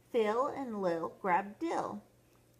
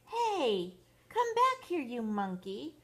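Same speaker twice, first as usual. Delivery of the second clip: high, raised storybook yell; yelling after someone; 5 semitones higher than usual. Acted. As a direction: call the runaway back. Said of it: "Tommy yelled after him".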